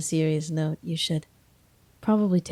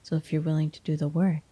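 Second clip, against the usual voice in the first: ordinary talk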